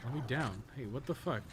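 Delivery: usual speaking voice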